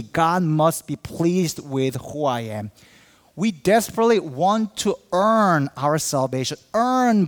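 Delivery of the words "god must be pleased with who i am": slow, self-satisfied close; slow smug certainty. Retold or imitated. Pastor mimics a churchgoer, slow smug satisfaction. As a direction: savour each word with pious pride. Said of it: "It comes like this".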